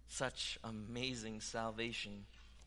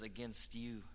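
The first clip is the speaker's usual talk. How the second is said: hushed prayer; 3 semitones lower, 7 dB quieter than usual. Acted. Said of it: "That attitude that says".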